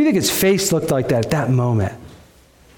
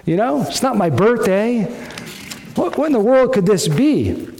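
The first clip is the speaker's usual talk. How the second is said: puzzled Uriah; 3 semitones higher than usual. Retold or imitated. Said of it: "I wonder if Uriah was thinking".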